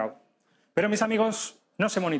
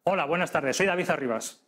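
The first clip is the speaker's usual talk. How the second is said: a slightly lower, steadier greeting on the out-breath; grounded lower voice. Shown as a demonstration. Teacher contrasts the greeting, now settled and slightly lower. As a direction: settle down into the voice after exhaling. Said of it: "a decir".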